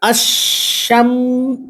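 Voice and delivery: আশ-শামসু drawn out, with শ doubled and no লাম sound; slow model reading. Shown as a demonstration. Teacher writing an example and reading it slowly for students. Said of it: "যেমন আমি একটা উদাহরণ লিখি".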